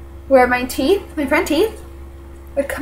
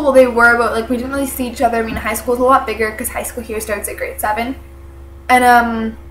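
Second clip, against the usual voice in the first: stuffy congested voice; talking through a blocked nose. Real, not acted. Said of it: "sorry, I'm a bit congested".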